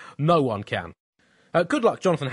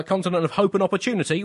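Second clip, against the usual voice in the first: mock slogan; 7 semitones higher, 4 dB louder than usual. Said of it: "typed the words Africa, continent of".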